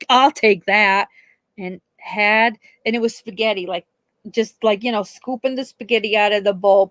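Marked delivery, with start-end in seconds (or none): 0.1-1.1 slow, smug raccoon voice; lightly voiced smug raccoon; mock raccoon voice. Raccoon grabs the dish, slow smug mock voice. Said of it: "it one-upped her, like".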